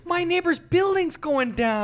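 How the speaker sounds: slow, high, loud disaster wail; hammed-up cry of alarm down the phone; mock panic. Acted panicked call during earthquake.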